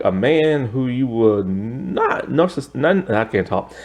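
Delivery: shivering with cold. Real, not acted. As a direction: voice shaky from the cold. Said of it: "'cause it's cold right now".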